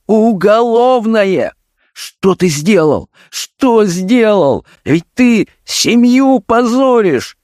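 a father's despairing plea, voice climbing; almost in tears. A narrator's reading. Father pleads with his forging son, nearly in tears. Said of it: "начал говорить почти со слезами".

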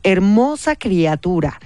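slow, drawn-out croak; croaking witch voice. Acted. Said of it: "graznó Matilde con voz de bruja".

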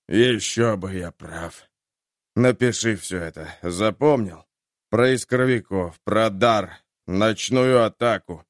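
fading captain giving orders; wounded soldier gasping. Acted. Dying captain.

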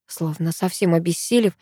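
plain reading voice

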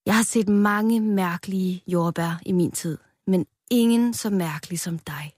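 a wise elder murmuring; old strawberry confiding to Rød. Acted. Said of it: "sagde det ældste jordbær".

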